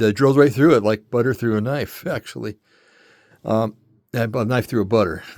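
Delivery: slightly winded talking; a little breathless between words; out of breath. Real, not acted. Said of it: "I'm a little out of breath today".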